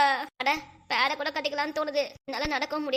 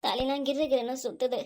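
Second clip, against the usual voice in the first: weak voice. Acted. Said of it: "என்னம்மா வாய்ஸே ஒரு மாதிரியா இருக்கு?".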